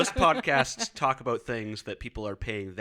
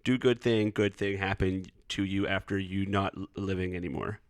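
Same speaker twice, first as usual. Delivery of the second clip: put-on baby voice. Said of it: "I'll stop doing the stupid baby voice".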